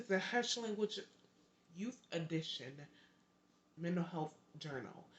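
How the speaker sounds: halting title with stumbling pauses; tongue-tied. Real, not acted. Host fumbling her own book's title, tongue-tied. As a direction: stop and start through the title. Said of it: "I'm getting tongue-tied on my words".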